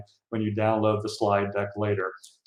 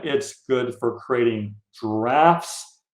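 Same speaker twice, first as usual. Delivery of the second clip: "drafts" drawn out and lifted in pitch; stress on drafts; much slower than usual. Real, not acted. Presenter telling fundraisers what lists are for, stress on "drafts". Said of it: "I emphasize the word drafts".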